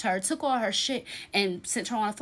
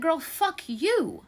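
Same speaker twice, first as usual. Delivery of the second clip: higher, drawn-out mock snap; a friend cussed out in the car, slow and pointed; retold cussing out; 9 semitones higher, 5 dB louder, much slower than usual. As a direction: hurl it back at her slowly. Car argument with her friend.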